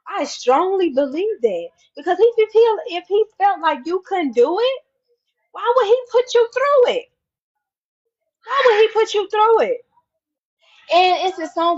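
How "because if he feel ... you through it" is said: rising fervor. Real, not acted.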